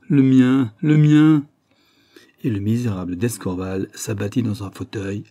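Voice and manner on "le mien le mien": loud anguished cry that builds on the repeat; despairing outburst. Acted. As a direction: hurl the words out in despair, louder the second time. Gaston confesses his guilt, despairing.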